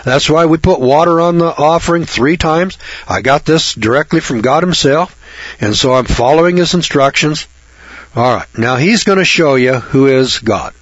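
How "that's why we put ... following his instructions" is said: casual, offhand Elijah; nonchalant. Retold or imitated. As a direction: shrug it off lightly. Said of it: "pretty nonchalant about it".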